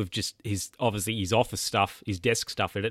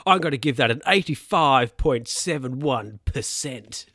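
imitating the boss; 3 semitones higher, 3 dB louder than usual. Boss scoring a call on whiteboard.

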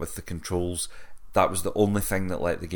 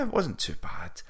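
whisper; 7 semitones higher, 4 dB quieter than usual. Real, not acted. Muttered aside.

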